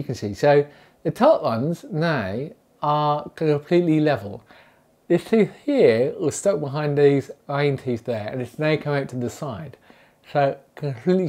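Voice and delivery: talking with finger in mouth; finger pulling lip down. Real, not acted. Seen 0: Finger pulls lower lip down to show teeth while speaking.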